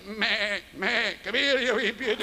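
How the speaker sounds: lightly voiced shepherd calling a sheep; Scottish shepherd. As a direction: coax the sheep like a doting shepherd. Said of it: "all these shepherds".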